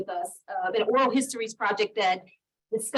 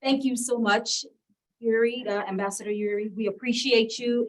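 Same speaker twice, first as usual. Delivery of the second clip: cheerleader voice. Real, not acted. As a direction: cheer it out like a pep squad. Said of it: "My cheerleader voice".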